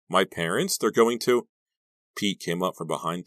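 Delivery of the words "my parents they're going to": rising, louder worried protest; anxious, unfinished complaint climbing in pitch; upset. A narrator's reading. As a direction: break off mid-sentence, upset. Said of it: "too upset to finish her sentence".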